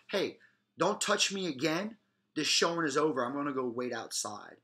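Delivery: firm. Shown as a demonstration. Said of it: "clearly stating your behavior, cut and dry".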